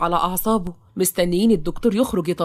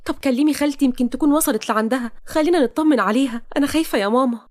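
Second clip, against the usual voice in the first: put-on higher-pitched young woman fretting to her mother; worried daughter; 5 semitones higher than usual. Sama worrying to her mother about missing Toqa, anxious.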